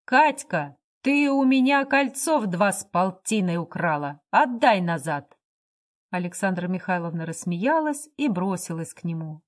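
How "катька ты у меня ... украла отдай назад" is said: loud, accusing call across the room. Acted. Drunk Lyakhov loudly accusing Katerina Andreevna at the party. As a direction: bark it out at Katka, loud and rough. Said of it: "громко сказал".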